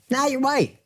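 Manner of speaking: a lightly caricatured dismissive voice; mock dismissive. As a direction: toss it off like it's obvious. Mocking a dismissive view.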